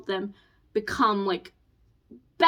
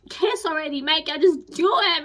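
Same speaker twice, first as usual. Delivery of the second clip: higher-pitched exasperated plea; impatient urging; 5 semitones higher, 3 dB louder than usual. Retold or imitated. Reader urging book couple to kiss already, impatient. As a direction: egg them on, impatient and high.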